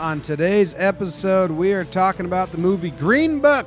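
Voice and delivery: lightly heightened announcer intro read; podcast intro read. Acted. Host welcomes listeners to the movie podcast, intro read. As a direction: lift it a little, like opening a show. Reads the show's intro over music.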